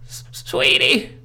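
high ghostly whisper; haunting voice. Acted. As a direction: breathe it like a faint ghost. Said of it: "grandmother's voice cry on the phone".

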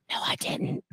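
breathy confessing whisper; whispered aside. Retold or imitated. He turns to Piper to admit the truth, whispered aside. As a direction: let it out as a secret aside.

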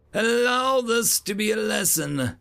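high-pitched instructor voice; lecturing educator. A narrator's reading.

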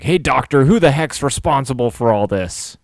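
understated acted yell; mock yelling. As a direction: act out confronting a doctor. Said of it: "he's yelling at the doctor".

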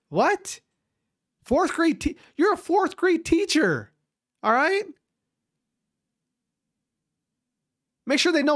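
high-pitched, exasperated disbelief; incredulous ranting. Real, not acted. Podcaster ranting at a fourth grade teacher's video, high-pitched and incredulous. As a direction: pitch it way up, scoffing at the absurdity.

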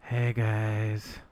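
imitating a drunk friend's slurred snap; blackout drunk. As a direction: lightly act out drunk rambling. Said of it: "let's open this up".

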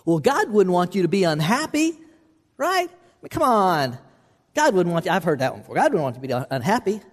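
a lightly voiced sly tempter, wheedling; half-mocking persuasive lie; coaxing tempter voice. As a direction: coax them like a smooth talker selling a lie.

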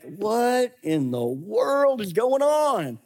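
slow, drawn-out mock puzzlement; mock bewilderment. Imagining finding a burning rose bush, slow mock bewilderment. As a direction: stretch it out, baffled at the bush. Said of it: "and you're like".

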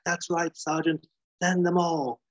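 a controlled first order, not yet shouted; Gary Oldman in Leon. Acted. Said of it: "pure Gary Oldman, Leon".

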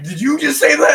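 high, loud, campy excited question; flamboyant voice. Retold or imitated. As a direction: go big and theatrical, a flamboyant diva. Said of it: "aggressively, flamboyantly gay".

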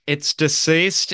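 "deceased" stretched and lifted like a question; bewildered questioning. Retold or imitated. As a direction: imitate bafflement, slow and high, rising on "deceased". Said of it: "His voice goes up like it's a question".

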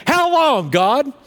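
high, loud anguished cry of how long; retold scream at God. Angry preacher in his car screaming a loud, high how long at God. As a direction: re-enact yelling at God while banging the wheel.

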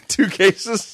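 high squeaky disbelief; incredulous. Acted. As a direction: squeak it in shock. Mock disbelief at order.

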